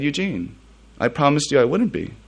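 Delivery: a dad quietly keeping his promise; father gently reassuring his scared son; gentle dad. Retold or imitated. Dad calmly answering his son.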